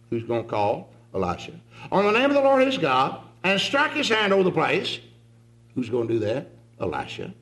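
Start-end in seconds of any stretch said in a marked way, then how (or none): 1.9-5.0 indignant Naaman. Shown as a demonstration. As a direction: spell out his demands with wounded pride. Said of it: "the way I think Naaman's thinking".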